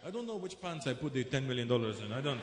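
mock Arab accent, casually careless about money; Arab rich guy accent. Comedian imitating an Arab rich man, careless accent. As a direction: toss it off in an Arab accent like it's pocket change. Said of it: "Arab rich".

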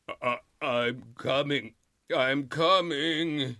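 very slow, drowsy wail; groggy, just woken up; slow sleepy wail. Acted. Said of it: "he wailed in a slow, sleepy voice".

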